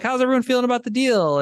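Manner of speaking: a light mock of the calm founder asking questions; imitating the mentor. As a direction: quote the mentor lightly, pitched well up. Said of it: "he kinda goes like".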